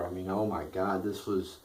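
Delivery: talking through a yawn. Real, not acted. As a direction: let a yawn swallow the words. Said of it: "I'm yawning now".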